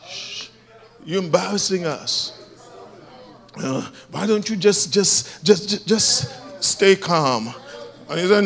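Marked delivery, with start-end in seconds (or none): 0.1-0.5 soft hushing sound; shushing. A narrator's reading. Crowd hushing the noisy beggar, soft shushing. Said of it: "And they said". 1.0-7.5 hushed scolding. A narrator's reading. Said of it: "And they said".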